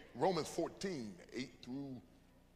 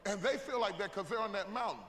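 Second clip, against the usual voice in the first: preaching shout; 4 semitones higher than usual. Acted. Preaching at full force.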